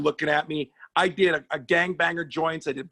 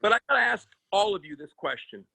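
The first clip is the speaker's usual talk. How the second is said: campy gay persona; 4 semitones higher than usual. Pretend. Comic playing gay lover bit.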